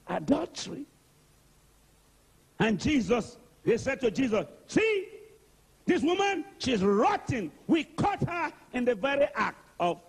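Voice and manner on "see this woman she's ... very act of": high, pointed accusation; accusing crowd. Retold or imitated. The men accusing the woman to Jesus, high and pointed. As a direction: jab the finger at her with your voice.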